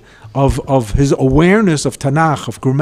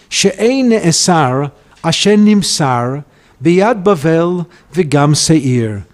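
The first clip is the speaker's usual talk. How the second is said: slow, measured Hebrew verse reading; deliberate poetic reading with drawn-out words; poem recitation; slower than usual. Acted. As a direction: recite it line by line, drawing out each phrase. Reads the opening of a poem.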